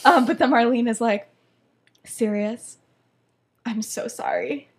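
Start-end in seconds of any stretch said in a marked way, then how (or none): 2.0-4.7 softer, halting mock-regretful; staged apology. Marlene turns Sirius down, mock-regretful. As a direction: let him down gently, with staged pauses.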